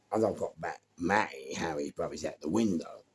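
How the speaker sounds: normal talking voice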